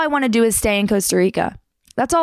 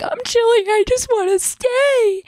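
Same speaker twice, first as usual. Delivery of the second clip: much higher, squeaky fake-breezy voice, the second line slow; mock casual squeak; 12 semitones higher than usual. Crying girl tells police she's fine, high squeaky fake calm. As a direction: pretend everything's fine in a tiny high voice. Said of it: "And I'm like".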